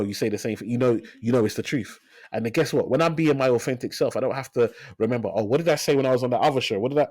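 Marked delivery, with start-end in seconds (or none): 5.3-7.1 mock scrambling memory. Guest imagining himself recalling another show's story, mock scrambling. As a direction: rattle it off as if frantically trying to recall. Acts out struggling to remember a lie.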